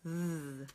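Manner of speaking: "Th" breathed, tongue between teeth; unvoiced "Th"; voiceless th. Shown as a demonstration. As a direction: air only on "Th". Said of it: "So one more time".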